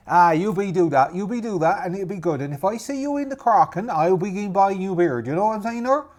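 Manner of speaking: put-on high, loud muddled pirate accent; put-on pirate voice, now friendly; appeased rival pirate. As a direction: send them off matily in pirate dialect. Rival pirate parts amicably.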